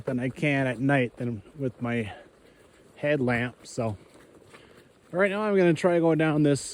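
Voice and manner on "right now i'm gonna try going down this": jolted voice walking downhill; on a bumpy road. Real, not acted. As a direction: talk while bouncing down a slope. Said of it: "sorry for the bumpy phone".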